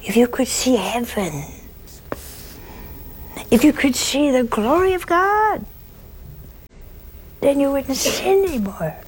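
high-pitched, pleading preacher voice; curé of Ars. Retold or imitated. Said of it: "curé in his high-pitched voice".

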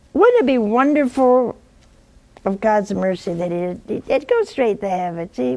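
ordinary delivery

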